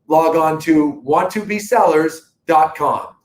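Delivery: measured TV ad plug, web address spelled out deliberately; playful TV announcer delivery. Pretend. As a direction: put on a TV presenter's voice for the plug. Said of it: "recognize my T V voice right there".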